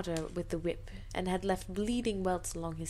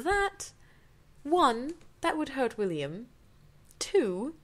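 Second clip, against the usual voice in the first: outraged listing; 5 semitones higher than usual. Real, not acted. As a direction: tick off the problems, appalled. Reader lists objections, outraged.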